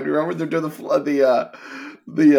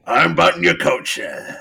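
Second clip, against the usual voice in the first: a hint of comic Southern accent; wacky Southern accent. Showing how the actor began the role, Southern accent. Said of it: "he wanted to do a wacky Southern accent".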